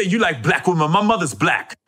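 imitated comedian going off on someone; mock rant in another comic's voice; Tracy Morgan. Comedian going off on his friend, mock-indignant imitation. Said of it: "what do you say?".

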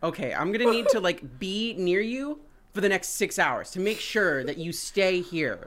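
lightly voiced needy cat, mock outrage; cat's voice. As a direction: play the clingy cat scolding its owner, half in jest. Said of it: "they're just like".

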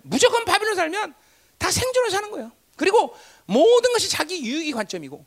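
high, loud pulpit delivery; forceful preaching. Real, not acted. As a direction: preach it with urgent, punched questions.

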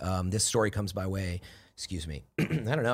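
real frog in throat, throat clearing. Real, not acted. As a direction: talk through a frog in the throat. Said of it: "I got this frog in my throat today".

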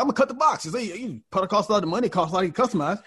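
put-on old clerk insisting on cutting the box, high and fussy; fussy old man. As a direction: explain it like a fussy expert.

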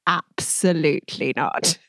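slow, deliberate imitated refusal; firm refusal. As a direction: draw out a retold no, word by word. Director's flat refusal, retold.

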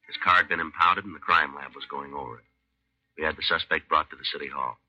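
steady, matter-of-fact police narration; calm, even recap of the case; story narration. A narrator's reading.

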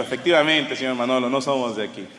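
low-pitched, courteous imitation; polite reply. Well-bred wife answering the nosy cabbie, mildly polite. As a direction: answer with measured, mild courtesy. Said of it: "Contestó con educación".

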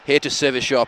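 lightly voiced smooth seducer; porn star voice. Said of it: "like some sort of Mexican porn star name".

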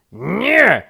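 high, loud single-word yell; exasperated shout. A narrator's reading. Rabbit answers turtle, shouting. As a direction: yell it, out of patience. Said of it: "krzyknął królik".

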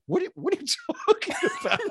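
fast, high, laughing confusion; laughing disbelief. Retold or imitated. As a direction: blurt it out through a laugh. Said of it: "I was like".

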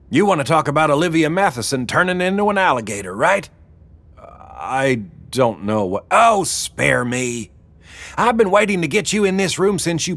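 brisk boss taking charge; Wilma's voice. A narrator's reading.

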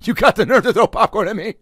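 hushed start, then a high loud mock yell; mock confrontation. Comedian confronting the popcorn thrower, whispered then yelled high. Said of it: "Maybe I would've been like".

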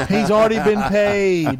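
laughing. Real, not acted.

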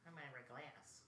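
lightly imitated radio host, very soft; a hushed hint of a public-radio host; Ira Glass. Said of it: "Ira Gla-, Glass".

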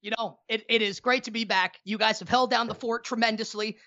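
slightly out of breath. Real, not acted. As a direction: talk while still catching your breath. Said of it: "still catching his breath over here".

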